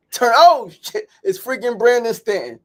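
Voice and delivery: sudden high burst of surprise; surprised. Retold or imitated. Tapped on the shoulder, he recognizes Brandon Stanton: surprised. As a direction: jump up at spotting him.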